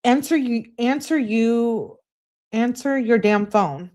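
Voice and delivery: mock-angry girlfriend demanding he answer. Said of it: "She emphasizes it".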